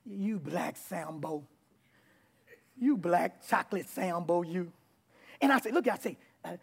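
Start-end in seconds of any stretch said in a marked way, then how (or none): 0.0-4.7 mock taunt. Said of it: "So I would say to my son".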